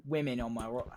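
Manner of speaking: attempted British accent, not quite landing; bad British accent. Streamer imitating Tommy to chat, shaky attempt at British accent. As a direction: have a clumsy go at a British accent. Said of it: "I can't do a British accent".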